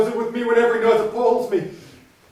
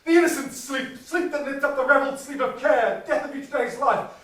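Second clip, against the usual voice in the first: eerie crying voice; 4 semitones higher than usual. Retold or imitated. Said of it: "I heard a voice cry".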